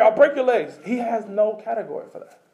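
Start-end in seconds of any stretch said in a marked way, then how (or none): 0.0-0.8 rising to a mock angry yell; exasperated rant building to a shout; mock exasperated shepherd. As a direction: play a fed-up shepherd losing patience. Mock voice of an irritated God.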